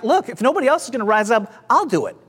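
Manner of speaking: touch of disbelief, stretched key phrases; incredulous. Retold or imitated. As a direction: act out a young man who can't believe nobody will step up. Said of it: "incredulously, is like".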